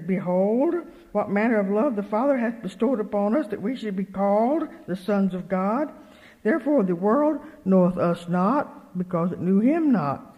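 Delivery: emphatic, measured Bible reading; scripture reading. Real, not acted. Preacher reading First John aloud, emphatic scripture reading. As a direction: declaim the verse with weight.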